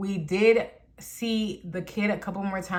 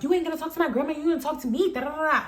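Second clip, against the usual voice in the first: higher-pitched, sing-along summary of a quarrel; retold arguing; 6 semitones higher, much faster than usual. Teller argues with the woman about grandma, mock arguing. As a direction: rattle off your side, pitched up. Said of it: "I'm arguing with her".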